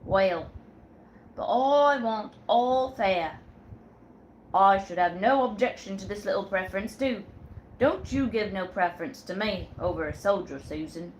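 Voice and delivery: sailor Jack. Acted. Sailor Jack tells Susan who's captain, firmly. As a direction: lay down the law like a ship's captain.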